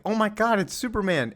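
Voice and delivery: put-on high, thrilled kid's cry; excited kid. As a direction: gasp like a starstruck kid. Kid excited seeing Superman.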